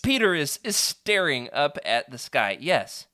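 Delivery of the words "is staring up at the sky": "staring" said slowly and clearly; slow down and land "staring" deliberately; careful reread. Shown as a demonstration. Reader correcting his slip, slow careful reread. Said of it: "I always mess up staring and standing".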